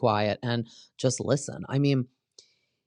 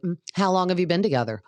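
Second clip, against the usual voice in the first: mock sweet but hostile; 6 semitones higher, faster than usual. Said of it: "asking nice questions, but in a hostile way".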